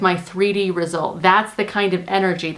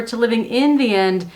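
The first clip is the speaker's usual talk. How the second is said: in stressed against for; 2 semitones higher than usual. Shown as a demonstration. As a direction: lean on the word in, not for. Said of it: "can look really similar".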